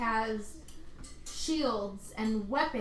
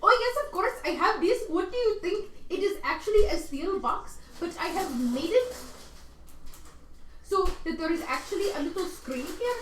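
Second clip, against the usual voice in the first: higher, eager assistant voice; a proud craftsman showing off his work; Barney presenting the box, eager; 5 semitones higher, faster than usual. Acted.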